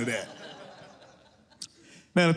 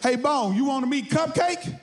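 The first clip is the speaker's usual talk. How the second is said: cheery host; 6 semitones higher than usual. Acted. Acts friend introducing a pet.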